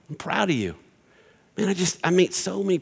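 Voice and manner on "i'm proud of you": sincere praise. Shown as a demonstration. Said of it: "Tell them you're proud of them".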